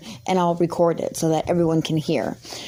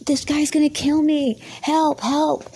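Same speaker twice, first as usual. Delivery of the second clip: mock panic; 8 semitones higher than usual. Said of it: "and was like".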